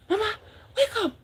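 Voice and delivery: high, frantic plea to wake; a daughter calling her dead mother; lightly voiced panicked cry; desperate call. Daughter finds mother lifeless.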